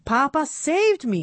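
a touch of breathlessness; breathless. Acted. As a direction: gasp it out as if just rescued. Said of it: "he said breathlessly".

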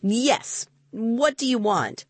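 high, haughty challenge; scowling woman. A narrator's reading. Smartly dressed woman to children below her window, scowling. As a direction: look down on them with the voice. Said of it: "smartly dressed woman scowled down at us".

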